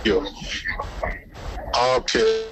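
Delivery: normal talking voice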